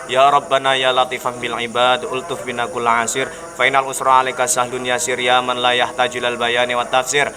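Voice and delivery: steady, even recitation of an Arabic prayer; closing prayer. Acted. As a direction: recite the doa in one flowing line. (membaca doa penutup dengan datar dan khusyuk)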